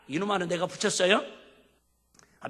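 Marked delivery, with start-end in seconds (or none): none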